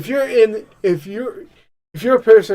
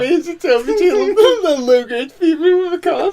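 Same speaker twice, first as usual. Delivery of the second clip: a light Trump voice, rising higher as laughter breaks in; Trump impression; 5 semitones higher, 4 dB louder than usual. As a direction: play Trump whining about Sarah. Voices Trump after friend's story.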